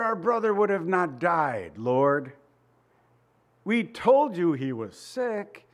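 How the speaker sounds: drawn-out, mildly reproachful plea; lightly acted grieving sisters laying blame; blaming lament. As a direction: imitate a mourner's slow reproach. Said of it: "They blame him".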